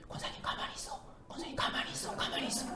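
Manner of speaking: urgent hushed whisper. Retold or imitated. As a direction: whisper it close to her ear so others won't hear. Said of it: "귓속말로 막 하는 게". (엘리베이터에서 귀에 대고 다급하게 속삭이는 권사님)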